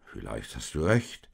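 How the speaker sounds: low, measured concession; thoughtful. A narrator's reading. Josef weighs Maria's praise of the donkey, thoughtful. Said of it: "sagte Josef bedacht".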